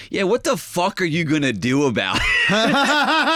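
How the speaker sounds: drawn-out belligerent comeback, laughing at the end; slow, confrontational mock challenge; mock aggressive biker. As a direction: play the hostile biker squaring up. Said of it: "And the guy goes".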